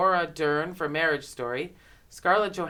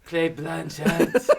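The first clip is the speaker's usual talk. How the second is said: put-on Australian accent; much slower than usual. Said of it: "I can't do an Australian accent".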